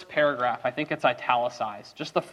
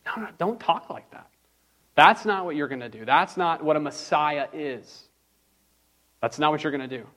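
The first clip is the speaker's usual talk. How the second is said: Peter's alarmed, insistent no, pitched up; mild protest; 2 semitones higher than usual. Acted. Peter rebuking Jesus, refusing his talk of dying: insistent protest. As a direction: push back hard, almost pleading.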